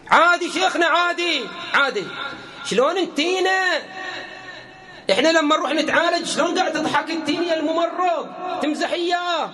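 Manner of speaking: preacher lightly voices a working woman defending herself; objecting woman. Retold or imitated. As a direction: shrug it off like it's normal. Voicing a woman arguing back.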